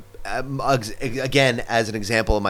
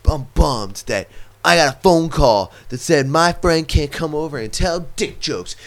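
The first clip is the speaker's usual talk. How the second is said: mock complaint; 2 semitones higher than usual.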